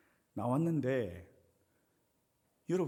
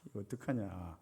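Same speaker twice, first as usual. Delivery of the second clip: 1 uneasy inner worry; 2 semitones lower than usual. Retold or imitated. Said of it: "마음이 정말 불편한".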